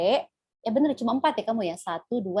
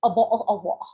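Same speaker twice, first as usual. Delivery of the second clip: British accent; 4 semitones lower, faster than usual. Shown as a demonstration. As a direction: fake British accent with silent R in WATER. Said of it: "Jadi R-nya jangan dibaca". (aksen British tanpa R)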